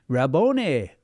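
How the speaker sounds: lightly Italian-sounding lilt; a hint of an Italian accent on the name. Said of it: "Sounds very Italian to me".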